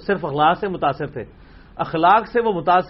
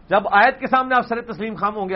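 usual speaking voice

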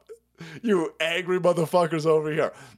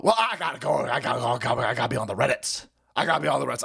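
mock whiny redditor; 4 semitones lower, much faster than usual. Voicing mocked non-voter.

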